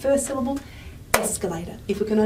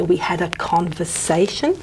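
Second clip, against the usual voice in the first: run along. Shown as a demonstration. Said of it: "run it along and say".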